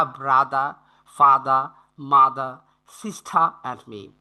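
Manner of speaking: British accent, r dropped: "brother" as brada, "father" as fada; British non-rhotic. Shown as a demonstration. Teacher shows students the British accent with silent r. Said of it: "Most of the time in the British accent".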